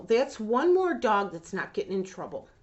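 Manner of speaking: fighting not to get emotional as she speaks; sincere, near tears; choked up. Real, not acted. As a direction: voice tight with real emotion, holding back tears. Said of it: "I'm gonna try not to get emotional".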